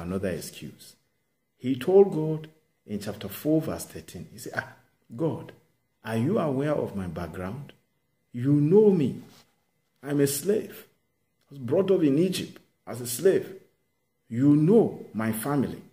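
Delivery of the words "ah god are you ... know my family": Moses pleading. Acted. Moses voiced confessing his background.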